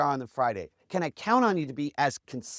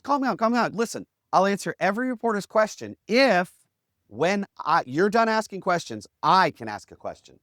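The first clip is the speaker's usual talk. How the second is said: raised voice over a crowd; retold calling out; 3 semitones higher, 4 dB louder than usual. Tightrope walker to clamoring reporters, retold shouting down. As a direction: call for calm, then set terms firmly. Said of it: "he shouted him down".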